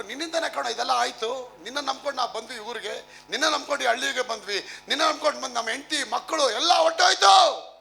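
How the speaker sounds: accusation climbing to a high, loud shout; acted angry blame. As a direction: play an aggrieved mob, building to a desperate yell. Acts angry crowd blaming David. (ಆರೋಪಿಸುತ್ತಾ ಕೂಗಾಟಕ್ಕೆ ಏರುವ ನಟಿತ ಕೋಪ)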